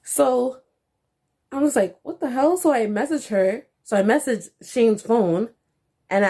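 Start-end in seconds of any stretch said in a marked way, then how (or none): 2.0-2.6 stunned what the hell. Retold or imitated. Shocked at the news.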